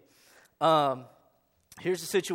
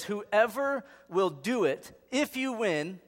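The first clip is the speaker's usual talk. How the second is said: king's plea; 7 semitones higher, 5 dB louder, slower than usual. Retold or imitated. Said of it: "He says".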